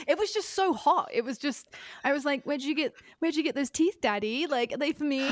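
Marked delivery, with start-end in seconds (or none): 2.4-5.3 higher, coy voice, lightly put on; a hint of a sweet little girl asking for a gift; mock girly voice. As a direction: play a smitten girl teasing Daddy. Girlish voice addressing Michael as Daddy.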